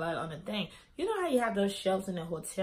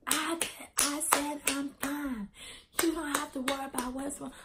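mocking imitation; 7 semitones higher than usual. Friend brushes off worry about her, in a high mocking voice.

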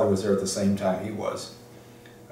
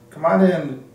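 Mike Jacobstein; 8 semitones higher, 6 dB louder than usual. Retold or imitated. Librarian greets a young applicant, high mimicked voice. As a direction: imitate the mentor, pitched well up. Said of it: "he speaks like that".

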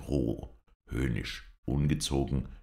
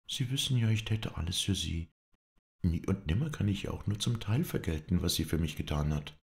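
put-on lightly raised gentle young woman's voice; Melanie; 4 semitones higher than usual. Melanie spricht zu Red. (leicht höhere, sanfte Frauenstimme)

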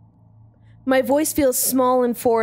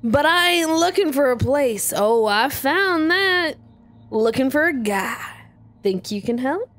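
Southern drawl. Acted. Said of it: "he's Southern".

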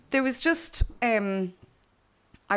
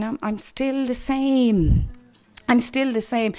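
gentle reassurance. Retold or imitated. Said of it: "It's like the Lord saying".

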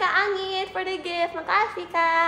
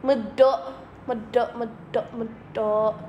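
thick Javanese accent; 5 semitones lower, slower than usual. Shown as a demonstration. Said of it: "tapi ditebelin".

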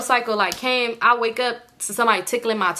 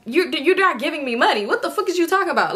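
higher-pitched, quickening protest; indignant disbelief; 6 semitones higher than usual. Retold or imitated. Woman disputing his claim about giving money, high indignant protest. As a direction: challenge a ridiculous claim, pitch climbing.

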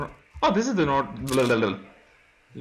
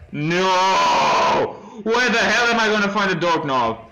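exasperated cry; 2 semitones higher, slower than usual. Real, not acted. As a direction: cry out in panicky frustration. Panicked player protests.

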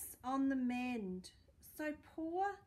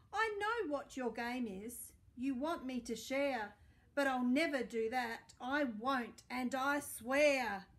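loud, possessive pug ranting; greedy angry rant; 3 dB louder than usual. Acted. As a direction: scold the sausage dog off your toys. Greedy pug rants at Trevor.

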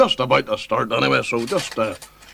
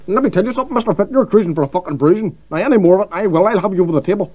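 mock threat; 7 semitones higher, 3 dB louder, faster than usual. Host threatens guest at dinner.

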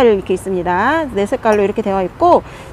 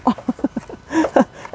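soft embarrassed laugh; 2 semitones higher, 4 dB quieter than usual. Real, not acted. Struggling to pull out pot.

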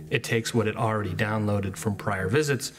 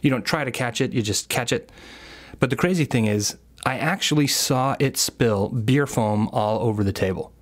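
measured storytelling read over music; story narration; 4 dB louder than usual. Acted. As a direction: narrate the anecdote like a podcast intro.

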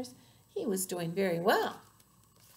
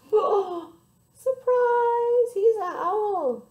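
high, loud, gasping reveal; gasp, then announce it loudly; surprised reveal; 10 semitones higher, 8 dB louder than usual. A narrator's reading. Hens speechless as owl catches rat, loud astonished gasp.

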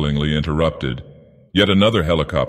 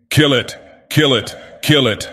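frenzied yell; 6 semitones higher than usual. A narrator's reading. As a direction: scream it in a frenzy. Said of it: "went on shouting".

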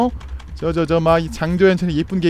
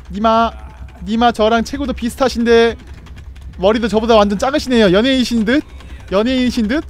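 mock flattery; 4 dB louder than usual. Flattering Freddy playfully.

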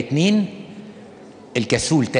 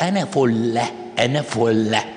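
mock self-satisfied confidence; self-assured; slower than usual. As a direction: play someone smugly sure they are perfect. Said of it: "ويقولها بثقة كده". (بثقة ورضا عن النفس)

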